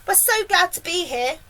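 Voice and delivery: put-on high, glad boy's voice; calling out. A narrator's reading. James greets the men below, calling out. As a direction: call down gladly. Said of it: "James called out".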